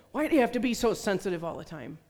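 loud, fast, exasperated dad's yell; booming voice. Retold or imitated. Dad yelling at his crying five-year-old girl, booming. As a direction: boom it out, imitating a scolding father. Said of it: "in this booming voice".

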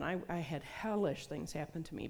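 normal talking voice

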